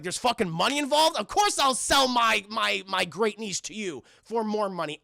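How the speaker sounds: Grunkle Stan. Retold or imitated. Stan hearing of money, mock excited. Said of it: "And Grunkle Stan's like".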